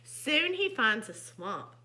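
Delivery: expressive, unhurried storybook reading; contented storytime delivery; story narration. A narrator's reading. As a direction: read to children, savoring the words. Reads picture book aloud.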